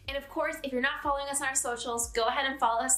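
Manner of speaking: bright, upbeat sign-off over music; outro promo read. Acted. Host asking viewers to like and subscribe, upbeat promo read. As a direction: wrap up the show and pitch the channel.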